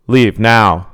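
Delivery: loud order; commanding. Acted. Sadie commands the clown, loud. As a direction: command him to go. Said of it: "Sadie commanded".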